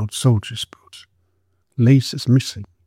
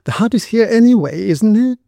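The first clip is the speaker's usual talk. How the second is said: put-on much higher, thin girl's voice; shrill voice; 10 semitones higher, 4 dB louder than usual. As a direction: pitch it up high and thin. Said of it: "in her shrill voice".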